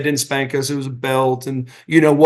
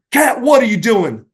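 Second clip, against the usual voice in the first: higher-pitched, mock-indignant question; retold exasperation; 6 semitones higher than usual. Storyteller voicing his dad questioning Cat in the car, mock exasperated. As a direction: demand an answer, lightly acting exasperated.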